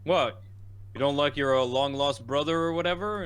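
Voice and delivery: put-on hammy Jersey accent; bad Jersey accent. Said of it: "bad Jersey accent".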